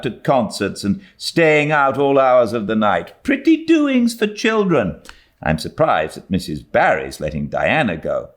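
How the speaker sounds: firm refusal, slowing at the end; a hint of a strict guardian saying no; lightly voiced stern Marilla. A narrator's reading.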